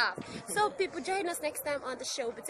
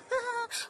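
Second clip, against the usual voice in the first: normal laugh; 11 semitones higher than usual. Shown as a demonstration. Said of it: "or you can use the normal laugh".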